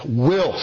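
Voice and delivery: "will" leaned on hard and firmly; "will" with heavy stress and a falling close; emphatic will. Shown as a demonstration. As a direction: land hard on "will", then drop.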